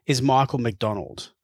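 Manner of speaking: measured, scripted podcast narrator read; documentary narration. A narrator's reading. Presenter introducing the selector to listeners, measured scripted narration. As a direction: narrate the story clearly, line by line.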